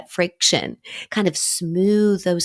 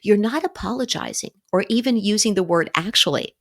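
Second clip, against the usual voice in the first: usual speaking voice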